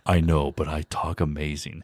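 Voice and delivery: lightly put-on deep voice talent; pompous voice-over guy. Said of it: "I've known voice people".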